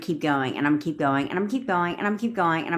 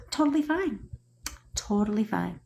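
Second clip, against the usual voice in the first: mock breezy; 5 dB quieter than usual. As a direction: sing it out all breezy and fake. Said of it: "He's like".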